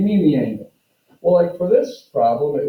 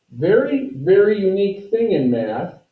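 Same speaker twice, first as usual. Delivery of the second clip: excited; 5 semitones higher than usual. Real, not acted. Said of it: "teacher stressing uniqueness".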